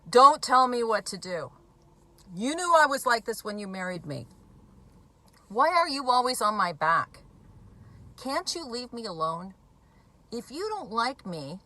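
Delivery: hammed-up drunk lashing back at the spouse; imitating an angry addict. Addict snapping at pleading spouse.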